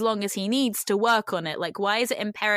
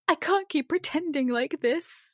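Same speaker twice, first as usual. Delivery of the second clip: mock soap opera; 6 semitones higher than usual. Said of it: "soap opera performance".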